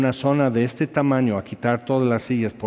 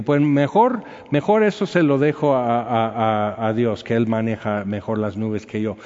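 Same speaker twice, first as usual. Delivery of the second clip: sarcastic; 2 semitones lower than usual. Retold or imitated. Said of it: "Puro sarcasmo, molesto".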